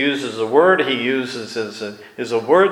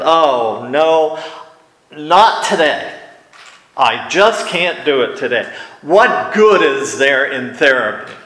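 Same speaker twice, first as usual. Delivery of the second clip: whiny protest. Retold or imitated. A patient dreading today's therapy session, whiny protest. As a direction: groan it out like a tired patient. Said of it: "you react with".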